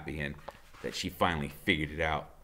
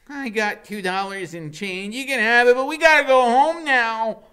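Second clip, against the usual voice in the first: put-on high, loud pleading boy voice; high anxious kid; 12 dB louder than usual. A narrator's reading. Nervous boy begging to go home, high and loud. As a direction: urge to leave, pitched high.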